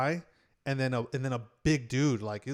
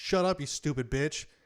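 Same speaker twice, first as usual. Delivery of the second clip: mock, toned-down, mild, sharp yelling; 2 semitones higher than usual. Retelling a movie theater fight, imitating a man yelling. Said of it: "he yells at Polly and he's like".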